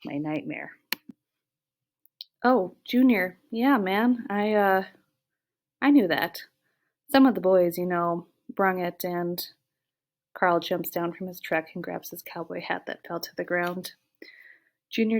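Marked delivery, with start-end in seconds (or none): 2.4-9.4 loud, halting bluster; hesitant, backpedalling; caught-out excuses. Acted. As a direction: stumble through an excuse, starting loud. Caught man stammers excuses.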